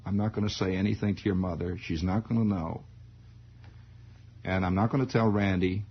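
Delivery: soft coaxing dad. Retold or imitated. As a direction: reassure man to man. Father soothing, low.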